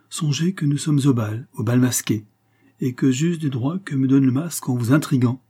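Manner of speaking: lightly voiced cadet, playfully secretive; intriguing cadet. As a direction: play a mysterious young guardsman, voice lifted.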